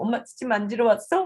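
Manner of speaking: put-on playful to baby. Shown as a demonstration. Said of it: "놀 때도 이제 얘기하는 거야".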